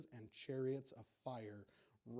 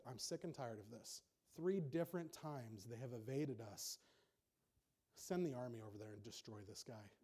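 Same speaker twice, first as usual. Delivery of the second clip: king of Syria; 3 semitones lower than usual. Retold or imitated. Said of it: "the king of Syria said".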